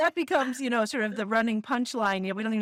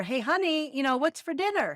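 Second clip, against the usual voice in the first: higher, calling out to the kitchen; calling from the door; 5 semitones higher than usual. Retold or imitated. Husband at the front door to his wife, calling out. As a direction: call across the house for dinner. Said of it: "he says at the door".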